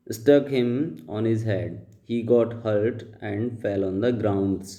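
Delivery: slow, deliberate read-aloud of the paragraph; slow dictation reading. Shown as a demonstration. Teacher reading the paragraph aloud to students, slow and deliberate. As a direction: read each word out slowly for the class.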